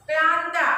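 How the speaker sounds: क्लांता said firmly as the model word. Shown as a demonstration. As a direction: call out क्लांता clearly. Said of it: "pronounce करना है". (क्लांता स्पष्ट उच्चारण)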